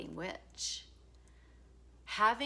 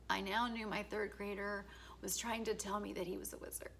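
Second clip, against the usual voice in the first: softer, laughing through near tears; choked up; 2 semitones higher, 5 dB quieter than usual. Real, not acted. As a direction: fight back real tears while saying it. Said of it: "I'm gonna cry".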